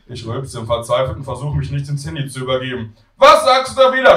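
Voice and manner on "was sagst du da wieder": high, loud demand; shouting granny. Acted. Grandmother who cannot hear her grandson, high shout. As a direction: holler the question down the line. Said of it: "schreit Oma".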